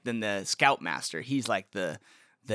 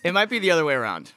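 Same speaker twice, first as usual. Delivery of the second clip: louder, faster repeat; excited realization; 5 semitones higher, 7 dB louder, faster than usual. Shown as a demonstration. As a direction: blurt it out faster. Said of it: "repeats the line faster, louder".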